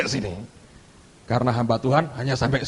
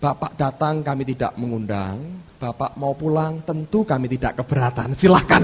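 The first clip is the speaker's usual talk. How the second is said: very smooth; 3 semitones lower than usual. Retold or imitated. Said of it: "halus sekali".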